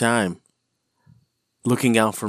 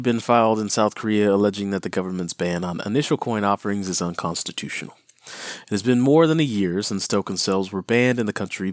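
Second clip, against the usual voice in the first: news reporter voice. Acted. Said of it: "Not the news reporter voice".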